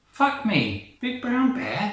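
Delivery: loud, high shocked cry; shocked outburst. Acted. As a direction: yelp it out in disbelief. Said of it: "if you could act more surprised about the bear".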